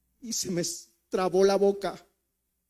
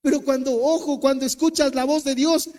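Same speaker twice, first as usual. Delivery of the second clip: fervent preaching; 3 semitones higher, 5 dB louder than usual. Real, not acted. Preacher climax.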